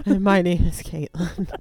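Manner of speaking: slightly winded intro; short of breath, laughing. Real, not acted. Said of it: "We're always out of breath a little bit".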